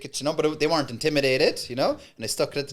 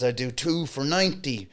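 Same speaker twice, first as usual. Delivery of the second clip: aggressive sales pitch; 3 semitones higher than usual. Acted. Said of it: "angry, aggressive pitch".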